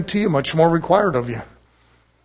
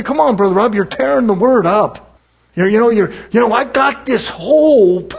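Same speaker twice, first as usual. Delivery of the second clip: mock objecting believer; 3 semitones higher than usual. Congregant objects, slow put-on voice.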